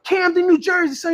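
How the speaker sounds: put-on high-pitched New York accent; trolling in a put-on New York voice; mock New York slang delivery. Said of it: "my New York accent".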